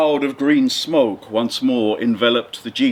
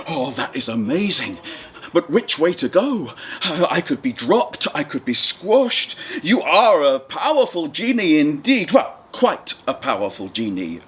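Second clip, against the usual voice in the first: nervous fisherman. Acted. The fisherman speaks.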